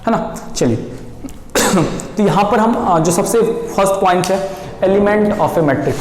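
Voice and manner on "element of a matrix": slow topic title. Shown as a demonstration. Teacher announcing the lesson topic to students, slow and deliberate. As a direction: stretch out element of a matrix slowly. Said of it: "हमारा जो topic हम start".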